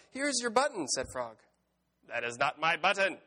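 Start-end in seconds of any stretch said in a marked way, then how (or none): 0.1-0.9 very high, loud storybook Frog; Frog calling out. A narrator's reading. Story Frog announces a find. 2.0-3.2 loud, exasperated storybook Toad; shouting. A narrator's reading. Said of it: "shouted Toad".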